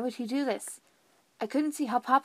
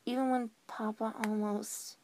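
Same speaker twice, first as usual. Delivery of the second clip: quivering voice; 6 dB quieter than usual. Acted. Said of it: "My voice kinda quivered".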